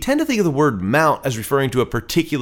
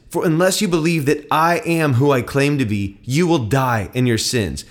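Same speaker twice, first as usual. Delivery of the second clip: firm, emphatic Bible narration with voiced dialogue; dramatic scripture reading. A narrator's reading. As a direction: read the gospel aloud with conviction.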